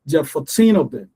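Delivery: put-on "fourteen" with a long, stressed TEEN; stretched TEEN. Shown as a demonstration. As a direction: stretch the last syllable of "fourteen". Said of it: "you're gonna stretch that teen".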